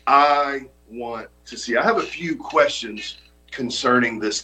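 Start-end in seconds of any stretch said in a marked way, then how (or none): 0.1-1.8 slow emphasis. Shown as a demonstration. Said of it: "Write that down".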